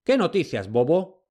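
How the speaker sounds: a touch of annoyance at the fool; mild angry snap; angry master. A narrator's reading. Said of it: "dijo su señor enfadado".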